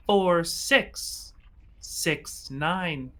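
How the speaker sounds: slow, spaced-out robot announcement; robotic voice. Acted. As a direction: drone the numbers like a machine. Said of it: "you hear a robotic voice say".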